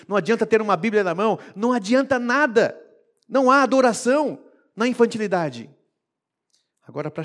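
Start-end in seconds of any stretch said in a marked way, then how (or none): 0.1-5.7 cada vez mais alto e firme; repreensão crescente. Acted. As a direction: sobe o tom contra a igreja. Paulo repreende a igreja. (repreensão firme que vai crescendo)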